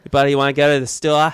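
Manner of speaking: bad attempt at a Boston accent. Shown as a demonstration. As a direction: try a Boston accent and miss. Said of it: "you have to say it in, in a Boston accent, which I can't do".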